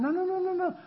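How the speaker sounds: a light, patient no from Jesus; gentle Jesus. Retold or imitated. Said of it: "Jesus sitting there going".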